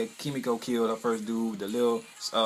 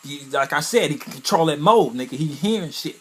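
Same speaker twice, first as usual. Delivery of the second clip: excited rave; 4 semitones higher, 7 dB louder than usual. Real, not acted. Excited recap of power.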